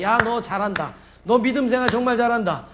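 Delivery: rising mock cheer from the witnesses. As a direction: cheer them on like a supporter in the stands. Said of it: "이러면서 우리를 막 응원하고 있습니다".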